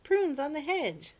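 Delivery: loud, high and slow excited call; gleeful kids yelling; children shouting. A narrator's reading. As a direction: shout it out to the others. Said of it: "they shouted".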